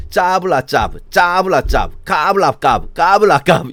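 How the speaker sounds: sneering nonsense syllables; mocking Hebrew sounds, sing-song; mocking singsong. Shown as a demonstration. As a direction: parrot the Hebrew like a taunt. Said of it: "말투 자체가 되게 비아냥거리는 말".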